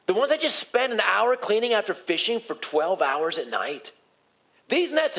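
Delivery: lightly mocking, grudging reply; snarky Simon. Simon grumbling to Jesus about his freshly cleaned nets, incredulous. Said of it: "you get Simon here".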